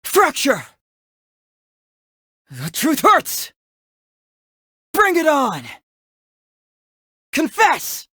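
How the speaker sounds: battle cries. Acted. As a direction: call out each attack with force. Battle skill call-outs.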